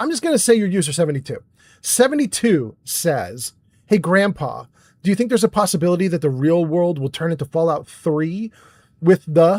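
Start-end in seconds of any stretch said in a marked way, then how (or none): none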